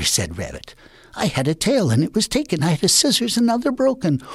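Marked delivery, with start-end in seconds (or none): 1.2-4.2 climbing higher lament. Acted. Rabbit lamenting his lost tail and broken scissors. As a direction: let it rise with each loss.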